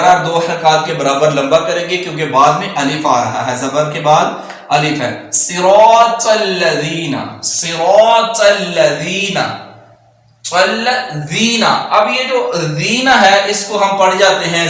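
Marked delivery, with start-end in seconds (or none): 5.3-11.6 slow recitation with heavy saad. Shown as a demonstration. Teacher reciting slowly. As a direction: draw out صراط. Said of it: "slow model recitation".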